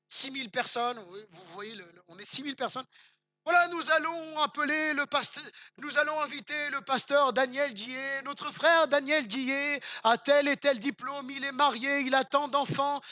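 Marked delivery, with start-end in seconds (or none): 3.5-13.0 a hint of a pompous host introducing the speaker; lightly voiced grand stage introduction; congress announcer. Preacher mimicking a big congress host introducing pastor. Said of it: "je vais vous la faire comme si on était dans un gros congrès".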